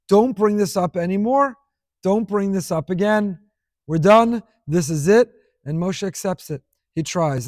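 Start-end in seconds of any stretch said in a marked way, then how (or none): 0.1-5.3 emphatic, louder on the final short phrases; firm refusal. Acted. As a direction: shut the request down for good. Voicing God's final refusal to Moshe.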